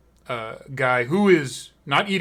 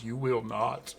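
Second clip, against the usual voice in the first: softer, amused doubt with a chuckle; knowing grin; 3 semitones lower, 7 dB quieter than usual. Acted. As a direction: let a grin undercut the reassurance. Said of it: "with a grin that says".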